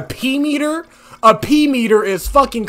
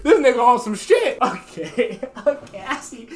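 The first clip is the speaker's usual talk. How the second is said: ordinary talk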